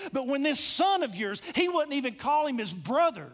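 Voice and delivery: a touch of anger, acted out; mildly heated complaint of an aggrieved son; angry older brother. Older brother protesting to his pleading father, mildly angry. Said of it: "listened to the anger in this".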